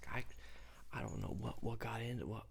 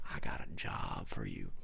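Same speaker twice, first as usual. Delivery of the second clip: much lower, gruff offer; deep Santa voice. Retold or imitated. Santa offering the storyteller a job, deep. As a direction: drop into a deep mock Santa. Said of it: "He said".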